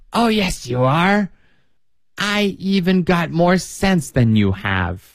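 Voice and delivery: put-on bickering old woman.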